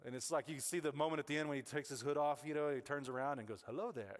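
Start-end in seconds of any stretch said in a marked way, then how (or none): 3.7-4.2 a light hint of a wise old Jedi; lightly voiced calm mentor greeting; Obi-Wan greeting. Pastor to congregation, a light Obi-Wan greeting.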